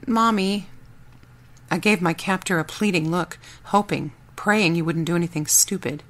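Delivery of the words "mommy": put-on whimpering little boy; small sleepy child calling mom. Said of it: "rubbing his eyes and whimpering".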